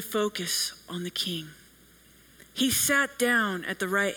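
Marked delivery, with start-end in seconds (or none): 0.0-1.5 whispered, drawing the room in; hushed emphasis. Real, not acted. Preacher whispering the final point to the congregation.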